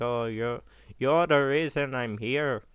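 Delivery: put-on a weak, half-hearted Irish accent; mock Irish brogue, barely there; bad Irish accent. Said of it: "that's a offensively bad Irish accent".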